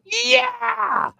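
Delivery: high, loud drawn-out whoop; excited shout. Retold or imitated. Man retelling his reaction to a shooting star, excited shout. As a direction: yell it in triumph at the sky.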